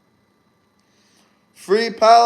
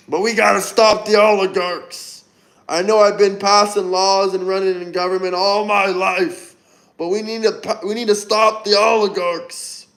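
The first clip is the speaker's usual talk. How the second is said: lightly voiced veteran senator impression; mock stump speech against the oligarchs; Bernie Sanders. Streamer mimicking a senator for his viewers, light political impression. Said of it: "That's my Bernie and Bernie Sanders impression".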